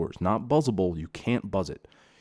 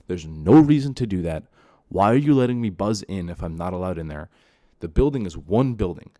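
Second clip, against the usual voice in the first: louder, heated complaint about the door; 5 dB louder than usual. Real, not acted. Tenant ranting about locked doors, heated. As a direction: let the frustration boil over. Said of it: "I'm getting a little heated here".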